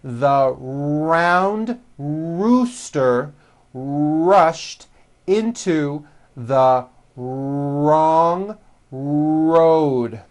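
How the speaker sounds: very slow, every R strong and rounded; slow model sentence. Shown as a demonstration. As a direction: spell it out slowly for learners. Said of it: "Now repeat this sentence".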